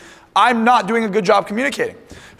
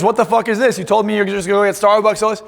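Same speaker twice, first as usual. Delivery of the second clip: put-on angry girlfriend; 3 semitones higher than usual. Girlfriend confronting him about the cup, mock angry. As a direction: play the jealous girlfriend, a bit heated.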